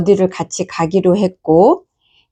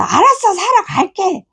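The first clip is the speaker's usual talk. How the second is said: much higher, exasperated giving in; daughter yelling; 11 semitones higher than usual. Retold or imitated. Daughter gives in to mother, exasperated yell. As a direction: yell okay fine like a fed-up kid. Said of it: "소리 지르면서".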